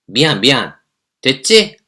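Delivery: loud, high, dismissive sorry sorry; careless apology. Acted. Girlfriend throws a careless apology at the boyfriend. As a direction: toss off the apology impatiently. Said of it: "사과를 제대로 안 해서".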